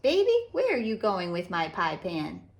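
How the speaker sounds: put-on gentle, lively read-aloud for kids; storybook narration. A narrator's reading. Author reading a picture book to children, animated storytelling. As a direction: read it like storytime for little ones.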